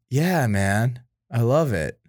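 sarcastic, unimpressed tone; flat unenthused. Retold or imitated. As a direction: say it like you don't mean it. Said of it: "in that tone".

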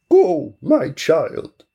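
very slow, put-on old man voice; old man blessing. Grandfather sending the girl off, a slow put-on old voice. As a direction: give your blessing, slowly and gently.

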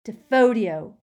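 loud, high spell cry; Hermione yelling. A narrator's reading. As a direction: yell the incantation with force. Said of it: "he heard Hermione yelling".

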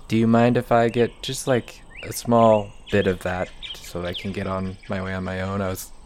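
expectant elf. Acted. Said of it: "almost kind of expectantly".

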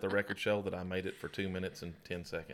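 loud, laughing release; loud and amused, giving up the hush; quiet voice abandoned. Real, not acted. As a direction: burst back to full volume. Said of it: "The quiet, quiet voice is over".

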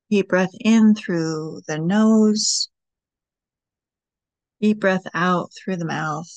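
unhurried guiding voice with long pauses; guided meditation. Acted. Host guiding listeners through breathing and writing prompts, guided meditation. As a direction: lead them gently through each step, leaving space.

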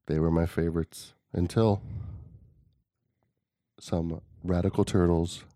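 lightly voiced documentary storyteller with long pauses; Morgan Freeman voice. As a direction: recount it gravely, pausing between phrases. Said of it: "Are you doing, like, Morgan Freeman voice?".

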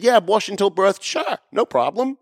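high, breezy mock politician; mock blunt politician. Host mocking politicians saying it bluntly, high breezy voice. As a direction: toss it off like a politician who doesn't care. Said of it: "if they just came out and said".

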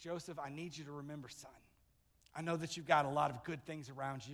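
soft, low, fatherly, like leaning close to a son; hushed, loving father's voice; tender fatherly hush. Retold or imitated. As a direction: speak as a gentle old father pleading quietly. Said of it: "He was saying".

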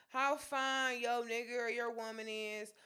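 ordinary delivery

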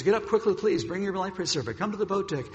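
lightly acted urgent instructions; urgent call. Officers waking passengers to evacuate.

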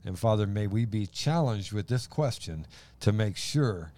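earnest spoken prayer to open; slowing prayer that settles into amen. Real, not acted. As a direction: pray sincerely for the group. Leads an opening prayer.

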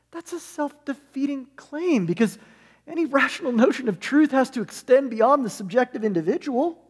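a hint of Gaffigan's high voice; Gaffigan inner voice. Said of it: "goes into a high-pitched voice to answer it".

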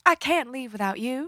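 soft put-on accent, pleading line; Lyle with an accent. Co-host imagining Lyle pleading with Chuck, put-on accent. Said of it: "I just gave him that accent".

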